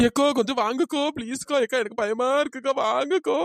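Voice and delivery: frightened, whimpering plea; tearful pleading. Acted. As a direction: beg big sister to come along. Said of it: "first அழுவாம பேசுடி". (அழுதுகிட்டே பயத்தோட கெஞ்சுறது)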